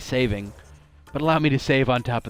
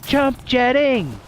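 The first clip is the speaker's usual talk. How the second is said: louder, higher, drawn-out mock grunt; hammed-up grunt; 9 semitones higher, 5 dB louder, slower than usual. Streamer mocking Ryder's jump grunt, hammed-up shout. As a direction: ham up the jump cry like a game hero. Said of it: "The flourish at the end is definitely necessary".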